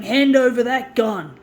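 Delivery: loud, stern order; stern demand. Retold or imitated. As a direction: demand the gun like a cop. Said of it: "Like he was saying".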